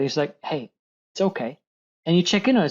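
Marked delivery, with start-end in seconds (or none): 0.4-1.6 gentle reassurance to oneself; softly soothing, unhurried; super kind. Shown as a demonstration. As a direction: say it kindly, as a comfort. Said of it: "be super kind to yourself".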